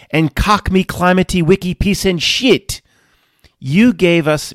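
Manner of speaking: loud imitated French rant; mock French accent. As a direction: blame Neo in a hammed-up French accent. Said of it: "He's blaming Neo for all of this".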